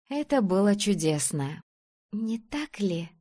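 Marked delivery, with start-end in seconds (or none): 2.1-3.1 lightly dreamy little question; dreamy drawl. A narrator's reading. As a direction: draw it out wistfully. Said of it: "мечтательно протянула Женя". (мечтательно, нараспев)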